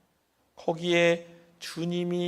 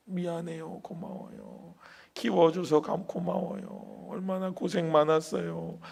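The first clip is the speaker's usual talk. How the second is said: tearful; 4 dB quieter than usual. Retold or imitated. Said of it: "하면서 막 우니까".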